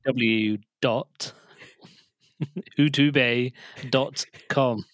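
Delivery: slow, spaced-out address with "utube" mispronounced; joke web-address pronunciation. Pretend. Co-host reading out a joke link for listeners, slow mock mispronunciation. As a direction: spell it out slowly, mangling "utube" for laughs. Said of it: "It's pronounced YouTube".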